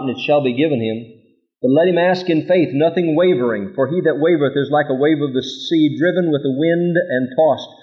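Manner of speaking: measured, solemn reading of scripture; solemn Bible reading. Acted. Reads scripture aloud.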